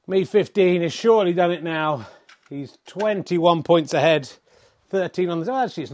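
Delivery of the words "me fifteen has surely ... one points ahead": excited commentary. Acted. Excited snooker commentary call.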